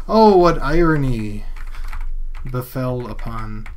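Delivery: hammed-up archaic pronouncement, slowing and dropping off; grand opening, then slow, falling close; mock-theatrical lament. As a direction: declaim it like mock Shakespeare. Mock-archaic lament over suffocated clowns.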